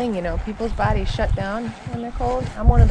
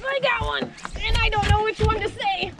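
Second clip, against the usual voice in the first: excited; 9 semitones higher than usual. Real, not acted. Catching a fish, cheering.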